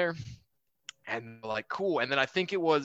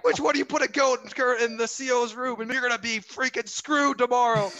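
mock angry threat; 8 semitones higher than usual. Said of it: "we're, like, yelling at them".

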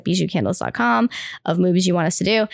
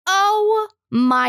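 starstruck gasp; 10 semitones higher than usual. Retold or imitated. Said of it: "I was like".

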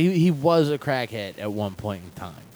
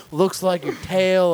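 cop voice; 5 semitones higher, 5 dB louder, slower than usual. Pretend. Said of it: "voice acting".

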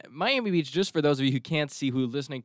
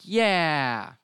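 passenger's reply; 4 semitones higher than usual. Acted. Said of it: "you're kinda like".

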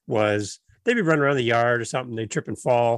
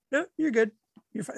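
imitated casual reassurance; 9 semitones higher, faster than usual. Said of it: "if you just like".

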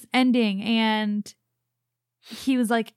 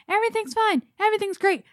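mock cheerful; 10 semitones higher, faster than usual. Mocking formulaic Harry Potter plot.

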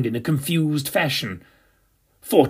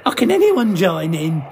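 giggling; 4 semitones higher than usual. A narrator's reading. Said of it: "he giggled".

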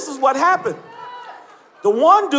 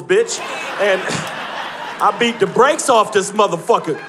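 usual speaking voice

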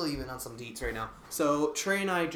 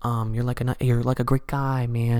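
fanboy rapper impression; 2 semitones lower, 13 dB louder than usual. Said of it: "Crypt, he's like".

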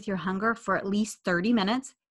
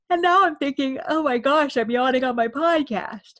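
high, loud, playful exclamation; amused oh-my-gosh outburst; mock dismay; 6 semitones higher, 6 dB louder than usual. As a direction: exclaim as if caught out, pitch easing down. Acting own realisation of yawning mid-podcast.

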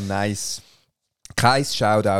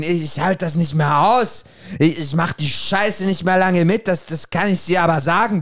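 put-on drunk ranting moon; 4 semitones higher than usual. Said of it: "und lallt vor sich hin".

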